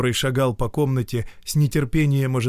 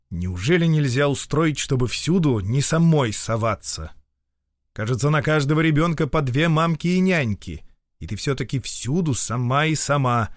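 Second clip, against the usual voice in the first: peevish irritation; 4 semitones higher than usual. Acted. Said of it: "с брюзгливым раздражением заговорил".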